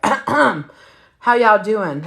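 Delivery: put-on slow, drawn-out drunk hello; tipsy mic greeting; drunk greeting again. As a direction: drag every word like he's wasted. Drunk boyfriend greets family.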